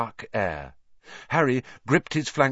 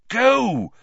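high, loud, drawn-out shout; 13 semitones higher, 7 dB louder than usual. A narrator's reading. Both friends sending Sirius off, urgent shout. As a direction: shout it to cut someone off. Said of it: "Harry and Hermione shouted together".

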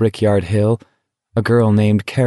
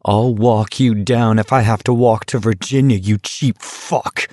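angry threat. Acted. Garrity threatening Stebbins, shaking with anger. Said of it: "Garrity was shaking with anger".

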